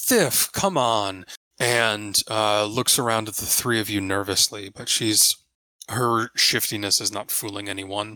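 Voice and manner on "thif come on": urgent shouting in character voice. Voicing a character who calls to someone to come on: character shouting. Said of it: "and Arami shouts".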